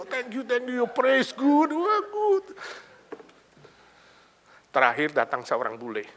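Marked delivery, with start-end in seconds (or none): 0.0-2.6 higher, gushing thanks from a foreign pastor; lightly voiced gushing pastor. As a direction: gush thanks, climbing high at the end. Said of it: "semua thank you dia".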